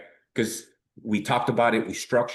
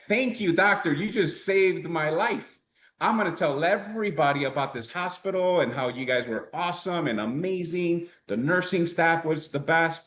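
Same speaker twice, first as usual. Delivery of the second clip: higher pitched, mock overjoyed thanks; gushing grateful patient; 6 semitones higher than usual. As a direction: gush like a patient who was just saved. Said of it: "wouldn't you as the patient be like".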